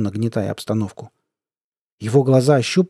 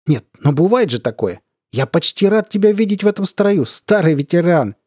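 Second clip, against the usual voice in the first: higher-pitched, lively taunting; needling colonel; 5 semitones higher, 4 dB louder than usual. Acted. Colonel taunting the demoted veteran, amused. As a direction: play a colonel amused by a fallen rival.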